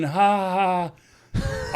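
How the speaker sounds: light, fake tittering laugh; mock giggling. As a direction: imitate oblivious tourists giggling. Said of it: "they're giggling".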